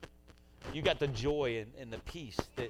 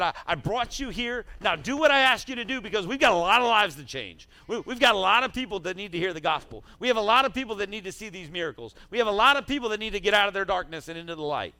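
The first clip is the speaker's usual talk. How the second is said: voice of God; 6 semitones higher, 7 dB louder than usual. Pretend. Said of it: "And he said".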